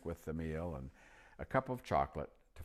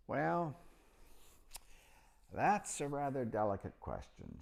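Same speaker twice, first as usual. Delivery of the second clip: put-on old magician; 9 semitones higher than usual. A narrator's reading. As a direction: pitch up into the chatty old magician. Narrator voicing old magician.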